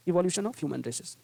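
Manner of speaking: each word stretched out slowly for the class; slow dictation. Shown as a demonstration. Teacher slowly dictating a phrase to students. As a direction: read it out as if the class is writing it down.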